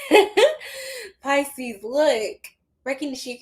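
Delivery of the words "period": high, drawn-out squeal into the word; high-pitched mock squeal; hammed-up catchphrase. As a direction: squeal it high, playing up the sass. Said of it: "'Cause we be like".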